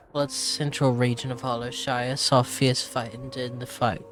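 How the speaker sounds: reading in a put-on British accent. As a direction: read it like a British travel writer. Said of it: "so I have to switch to British".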